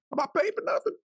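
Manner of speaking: high, soft, indignant mock father; imitating the father. Father leaving down the stairs, high and fading. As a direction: squeak it up, fading off. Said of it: "someone disappearing down the stairs and going".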